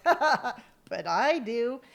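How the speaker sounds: slow, drawn-out mischievous mom voice; a slow, knowing mom voice; mom's cheeky reply. Retold or imitated. Dead mom answering through her daughter, slow and sly. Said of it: "And my mom's like".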